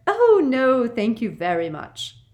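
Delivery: high, sugary, put-on politeness; a simpering little titter in the voice. A narrator's reading. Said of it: "with that simpering laugh".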